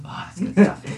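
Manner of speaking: high character voice. Acted. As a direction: relish the drink in a high voice. Voicing NPC sipping drink.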